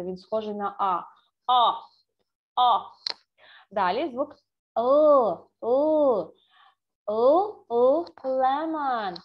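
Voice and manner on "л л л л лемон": loud, held "Л" then slow "лемон"; English L demo. Shown as a demonstration. Teacher drilling the English L for children, slow and loud. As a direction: hold the tongue on the ridge for "Л". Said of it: "Подивіться, будь ласка".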